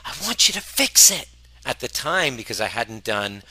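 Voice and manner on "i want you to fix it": much higher, louder demanding partner voice; high mock demand from a partner at two a.m; imitating partner. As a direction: mimic her whiny demand. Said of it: "consistently say".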